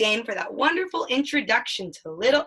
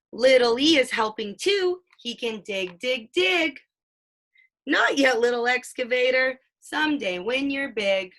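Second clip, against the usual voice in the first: lively picture-book read-aloud, playing up the sound words; reading to a child; 3 semitones higher than usual. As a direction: read it like a bedtime book for a toddler.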